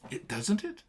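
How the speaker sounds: high, breathy excited gush; Daisy voice. Shown as a demonstration. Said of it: "She talks to everybody like this".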